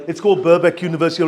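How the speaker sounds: ordinary talk, nothing marked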